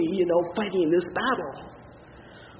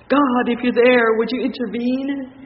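louder, pleading call to God; urgent plea; 3 semitones higher, 5 dB louder than usual. Retold or imitated. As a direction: push the plea harder. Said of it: "and said".

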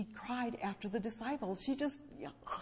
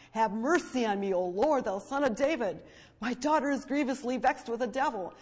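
loud, urgent plea for mercy; crying out; 2 semitones higher, 7 dB louder than usual. Acted. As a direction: cry it out loud from the heart. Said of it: "she's crying out. It says she cried".

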